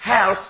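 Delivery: "health" said with a plain s instead of th; sloppy "health" with s at the end; wrong th sound. Shown as a demonstration. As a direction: mispronounce "health" as "hels". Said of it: "kalau dia salah nyebutnya".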